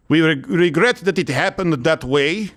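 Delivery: lightly done mock Ukrainian accent; halting non-apology in a hammed Ukrainian accent; Zelensky accent. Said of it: "I'll do the accent".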